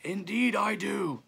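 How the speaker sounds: high, slow, drawn-out reply; calling back. A narrator's reading. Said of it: "said the second man".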